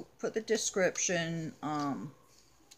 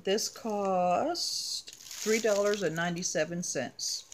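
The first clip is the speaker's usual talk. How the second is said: hiccups; 3 semitones higher than usual. Real, not acted. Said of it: "I have the hiccups".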